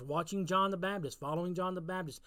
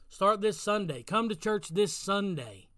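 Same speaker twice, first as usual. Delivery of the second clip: louder push; 3 semitones higher, 4 dB louder, slower than usual. Shown as a demonstration.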